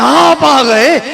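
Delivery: आप आ गए said with respect; deferential, expressive greeting; honouring welcome. Shown as a demonstration. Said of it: "इसका मतलब इज्जत हो रही".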